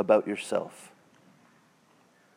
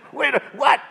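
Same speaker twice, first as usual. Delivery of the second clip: sudden much higher confused what; mock shock; 12 semitones higher than usual. Bible readers realizing they're the bad guys, mock surprised. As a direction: play the stunned hearer. Hearers shocked by Paul's words.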